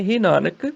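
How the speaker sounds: ਹੇ ਨਾਨਕ set apart as an address; pause after Nanak. Shown as a demonstration. Teacher showing the address, ਹੇ ਨਾਨਕ followed by a pause. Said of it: "ਨਾਨਕ ਤੇ ਰੁਕਣਾ".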